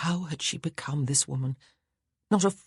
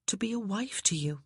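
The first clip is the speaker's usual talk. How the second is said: whisper; 5 semitones higher, 5 dB quieter than usual. Acted. Wife pleads with husband.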